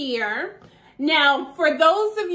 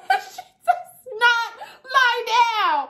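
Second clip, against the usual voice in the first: laughing emphasis; 8 semitones higher, slower than usual. Real, not acted.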